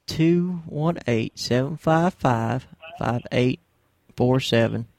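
each digit spaced out slowly and clearly; repeating the call-in number slowly for listeners, slow and clear; slow, deliberate number read. Shown as a demonstration. Read it out slowly so callers can dial. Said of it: "I better repeat the number here".

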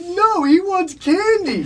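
laughing quote. Retold or imitated. Retelling, cracking up at friend.

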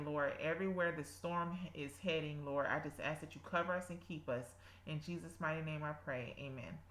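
earnest spoken prayer. Acted. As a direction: pray aloud with devotion. Leads a prayer.

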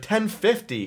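very high-pitched imitation of her panic; mock freak-out. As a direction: squeak it out as the flustered traveler. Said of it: "this girl next to me's freaking out".

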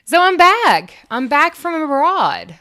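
big, loud, high "I'm back!"; triumphant return announced to listeners; excited announcement. Real, not acted. Host proudly telling listeners she's back, excited and loud.

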